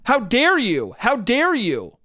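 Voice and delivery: high-pitched imitation of an outraged woman; hammed-up indignation, swooping up on "dare"; mock yelling. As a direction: scold him in mock affront. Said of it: "the woman keeps yelling at him".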